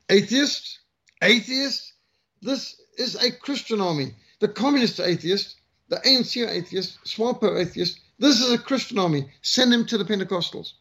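hammed-up disbelief at the recruit; mock outraged bellow. Sergeant major rebuking the atheist recruit, mock outrage. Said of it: "the sergeant major bellowed".

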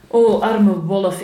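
loud, slow drawn-out pity. A narrator's reading. Girl to the trapped wolf, pitying. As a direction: draw out a big theatrical 'oh'.

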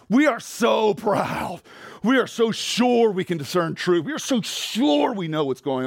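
slow, emphatic shouted rebuke; preaching shout. Real, not acted. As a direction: hammer the pride of the listeners.

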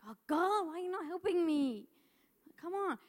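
frustrated prayer. Retold or imitated. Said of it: "I'm like".

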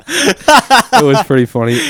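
slow, high, laughing through words. Real, not acted. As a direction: let the laugh spill over. Still laughing at story.

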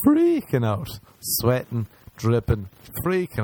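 high-pitched burst on the first word; retold panic. Boy stuck in the closet chest, high retold panic.

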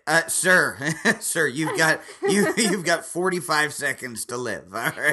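loud, laughing mock doctor. Doctor warning the stepdad, laughing through it. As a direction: play the ER doctor but crack up.

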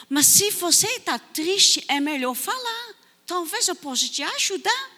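put-on teacher gently offering the girl help; reassuring teacher. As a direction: coax her to open up. Teacher reassures sad child.

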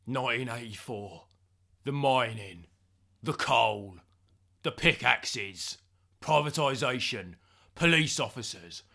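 lightly hammed-up flashback, in short separate phrases; mock haunted veteran. Recalling eighty-four to James, mock haunted veteran. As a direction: reminisce with pauses between each grim memory.

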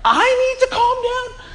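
very high, drawn-out incredulous squeal; comically outraged, voice shooting way up; hammed-up indignant disbelief, stretched out slowly; mock angry outburst. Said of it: "you seem a little angry".

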